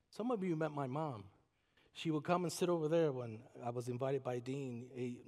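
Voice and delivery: ordinary talk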